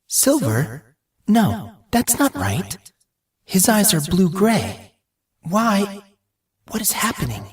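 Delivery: high, anguished confusion; frightened, pleading questions; anguished voice echoing in his mind. Acted. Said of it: "Anguished words that were not his own".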